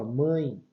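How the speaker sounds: "mãe" ending in an I glide; E sounding as I. Shown as a demonstration. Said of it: "Esse E parece o I".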